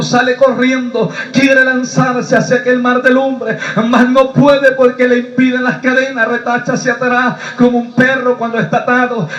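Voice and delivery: impassioned preacher telling a vision; driving, declamatory sermon delivery; fervent testimony preaching. Acted. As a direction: preach it urgently, phrase after phrase.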